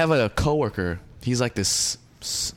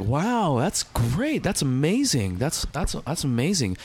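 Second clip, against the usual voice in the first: mock impressed, with a smile in the voice; smiling politeness; 2 semitones higher, slower than usual. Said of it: "And I'm smiling. I was like".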